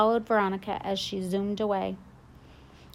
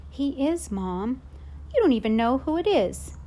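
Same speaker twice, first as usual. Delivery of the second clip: put-on louder, higher kid pushing back; a boy's raised protest to his mother; insistent protest; 4 semitones higher, 3 dB louder than usual. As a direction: argue it to Mom, getting heated. Jack arguing with his mom.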